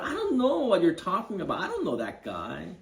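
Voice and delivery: high, fast, panicky denial; frantic denial blurted at the servant girl; panicked denial. Retold or imitated. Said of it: "He says to that servant girl".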